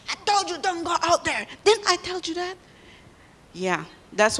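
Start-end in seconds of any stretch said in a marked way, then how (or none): 0.1-2.6 high, loud mock scolding father; scolding dad. Blind dad scolding his daughter for sneaking out, mock stern. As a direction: play the stern dad saying I told you so. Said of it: "and he said".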